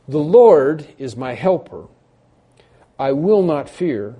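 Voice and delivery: loud, slow, confident proclamation; bold declaration. Acted. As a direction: declare it firmly, with deliberate weight. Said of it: "So we may boldly say".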